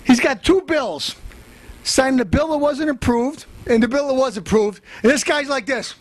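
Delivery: a loudmouth brother holding the mic; tough guest host. Acted.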